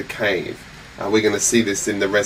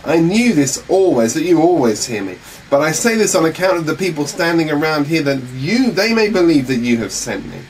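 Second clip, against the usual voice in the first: raised, higher prayer; crying out to the Father; 5 semitones higher than usual. Acted. Jesus crying out to his Father before the crowd. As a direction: call it up to heaven. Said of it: "he cries out".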